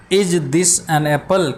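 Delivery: very slow, careful English reading. Shown as a demonstration. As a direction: read each word slowly for the class. Teacher reads question to pupils.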